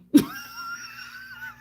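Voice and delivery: very high, squealing laugh; shrieking laugh. Real, not acted. Telling jail story, high squealing laugh.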